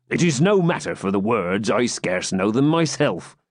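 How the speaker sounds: put-on a jovial old friar, slightly drunk; creaky old hermit. Tipsy hermit gives orders.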